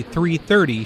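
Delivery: "three thirty" picked out with extra weight; emphasize "three thirty"; stress on "three thirty". Acted. Moviegoer buying two tickets, stress on "three thirty". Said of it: "Notice the emphasis on three thirty".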